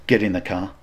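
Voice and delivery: low-key, controlled menace; retold aggressive order. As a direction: give a restrained command, retelling your own aggression. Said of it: "I was so aggressive".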